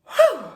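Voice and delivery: loud high whoosh of relief; relieved whew. Real, not acted. Coach relieved after finishing. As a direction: blow out the tension.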